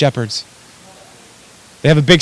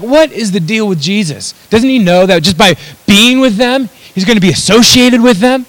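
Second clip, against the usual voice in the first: mildly hammed-up indignant disbelief, pitched higher; freaking out; 5 semitones higher than usual. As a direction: imitate scandalized religious people, voice climbing. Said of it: "were freaking out".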